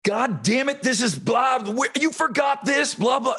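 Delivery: high, shouted waitress rant; mock restaurant yelling. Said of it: "the waitresses".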